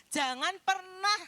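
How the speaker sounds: pleading with a breaking voice; a crying preacher's warning; tearful plea. Real, not acted.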